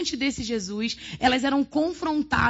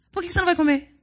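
higher, prying mock voice of a tablemate; a tablemate pestering the dieter, mock prying; nosy tablemate; 7 semitones higher, much faster than usual. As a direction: poke at her like a nosy friend at the pizzeria. Tablemate keeps insisting she eats.

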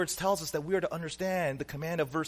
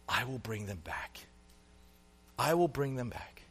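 quiet divine promise; 4 semitones lower, 6 dB quieter than usual. Acted. God's tender promise voiced quietly.

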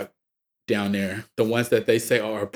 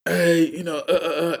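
a hint of a higher girly voice; mock blonde girl; 7 semitones higher than usual. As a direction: lightly play a ditzy girl. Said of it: "he had that Australian accent, so it sounds like a blonde girl".

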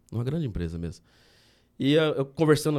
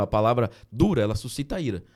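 scripture quote. Shown as a demonstration. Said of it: "Provérbios quinze".

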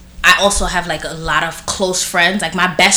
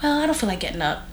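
lazy whine; 2 semitones higher, 10 dB quieter, faster than usual. Retold or imitated. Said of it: "And I'm like".

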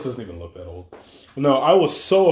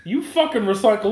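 high, loud mocking squeal; squealing tease; 6 dB louder than usual. Real, not acted. Friend teasing him about recycling, high squealing tease.

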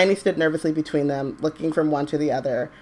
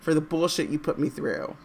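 mock tearful Hermione; 4 dB louder, slower than usual. Hermione voiced crying, mock scolding.

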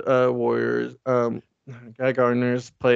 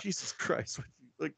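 much softer exasperated mutter; exasperated Lex; 4 semitones higher, 13 dB quieter, faster than usual. Retold or imitated. Lex mutters at the heroes, much softer and fed up. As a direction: breathe it out, fed up.

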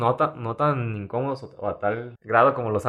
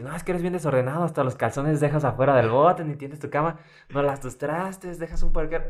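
higher scolding mom voice; nagging mom; 5 semitones higher than usual. Retold or imitated. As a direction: nag like a mother listing faults. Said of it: "Y te empieza a decir".

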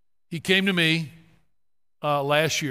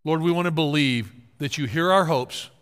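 closing prayer; 3 semitones lower than usual. Acted. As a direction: pray over the room, gently. Closing prayer over congregation.

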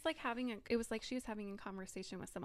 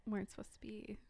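whisper; 4 dB quieter than usual. Real, not acted. Spooky hushed glitch remark.

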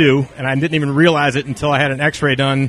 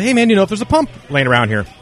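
friendly ask; 5 semitones higher, faster than usual. Retold or imitated. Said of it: "you know, friendly".

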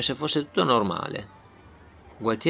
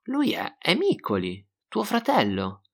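hesitant; 9 semitones higher, slower than usual. Acted. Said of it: "rispose titubante Gualtiero".

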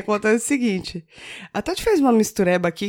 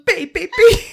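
laughing; 10 semitones higher, 6 dB louder, much slower than usual. Real, not acted. Pointing joke, laughing.

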